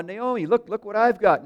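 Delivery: high and loud, bursting with news; thrilled daughter-in-law calling out; excited showing off. Retold or imitated. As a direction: Ruth excitedly shows Naomi her haul. Ruth shows off her grain.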